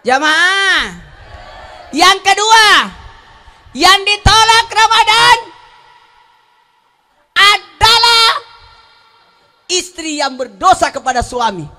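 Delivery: loud, high sermon cry; fiery preaching. Acted. Preacher shouting a new point to the congregation. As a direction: preach it hard to the crowd.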